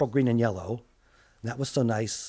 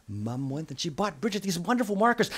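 ordinary delivery, nothing marked

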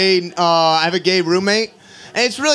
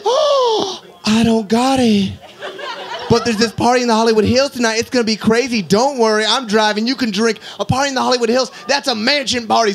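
sassy roommate. Retold or imitated. Roommate dodges rent.

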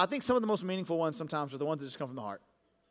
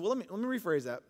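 soft retold correction; 5 semitones lower, 6 dB quieter than usual. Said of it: "And then I paused and I said".

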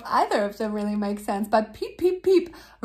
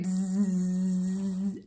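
buzzing bee; 5 semitones lower, 6 dB quieter than usual. Shown as a demonstration. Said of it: "we usually say".

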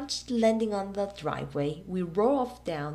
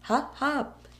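yelled; 8 semitones higher than usual. Acted. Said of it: "yelled Tom".

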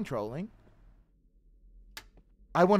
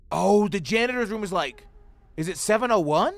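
normal talking voice

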